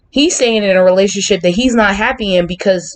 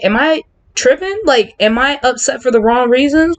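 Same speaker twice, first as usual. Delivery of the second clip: self-questioning; 6 semitones higher than usual. Retold or imitated. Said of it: "I'm just like".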